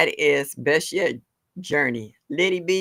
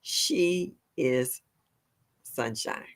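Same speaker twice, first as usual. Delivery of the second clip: "She is", pause, then a softer "sunshine"; careful slow name; 2 semitones lower, 6 dB quieter, much slower than usual. Real, not acted. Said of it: "I cannot say that fast for some reason".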